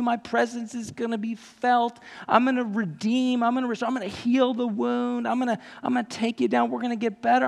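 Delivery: high, hurried pretend God rushing in; preacher hamming up what God did not say; mock eager rescuer. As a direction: play an overeager rescuer, lightly. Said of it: "God the Father didn't hear that and go".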